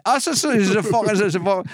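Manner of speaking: high, sing-song repeated mock syllables; like a Robin Williams skit; mock foreign babble. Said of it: "like that Robin Williams Scottish golf skit".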